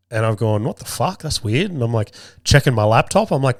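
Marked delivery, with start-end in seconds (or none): 0.6-1.7 soft, high baffled aside; mildly baffled, voice lifting softly; puzzled reaction. Retold or imitated. Man reacting to a sudden Bluetooth voice, puzzled.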